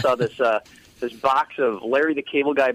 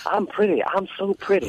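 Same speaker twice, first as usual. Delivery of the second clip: high, playful boxer's boast; Muhammad Ali; 7 semitones higher than usual. Retold or imitated. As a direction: echo the boxer impression, pitched up. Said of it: "like, Muhammad Ali".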